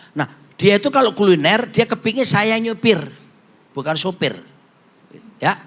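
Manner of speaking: ordinary talk, nothing marked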